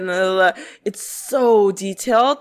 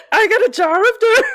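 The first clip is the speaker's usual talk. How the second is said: high, quick, giggly sing-song boast; Jack Sparrow impression; 11 semitones higher, 3 dB louder, faster than usual. A movie pirate bragging while running on the boat, high and fast. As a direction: prance it like a tipsy pirate. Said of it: "he's like".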